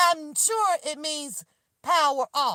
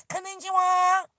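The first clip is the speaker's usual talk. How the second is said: high, singsong mock of the device lady; headphone lady voice; 6 semitones higher, 5 dB louder than usual. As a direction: chirp it like the headphone announcer. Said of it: "this is how she".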